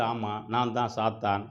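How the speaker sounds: slow, mildly groaned confession; moaning admission. Acted. Wounded Satan confirms his name, slow mild moan. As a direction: lightly moan it out, dragging the words. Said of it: "ரத்த வெள்ளத்துல முனகிக்கிட்டு".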